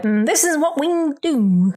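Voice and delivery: crooner voice; lightly voiced Rat Pack croon; old-timey voice. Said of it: "that's my fucking old-timey voice".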